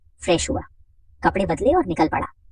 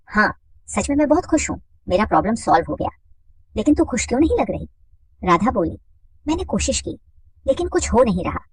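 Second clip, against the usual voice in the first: higher voice for the women friends; lightly voiced woman; 3 semitones higher than usual. Narrator voicing friends chatting at home, higher.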